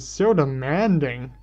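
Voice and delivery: slow, swooping sassy retort; teasing, lilting complaint. Acted. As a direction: draw it out with sass. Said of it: "Sassy Dreg says".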